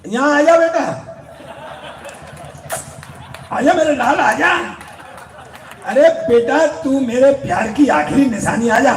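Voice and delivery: hammed-up affectionate calling out. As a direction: call him over like a doting parent. Englishman calling out to the Sardar.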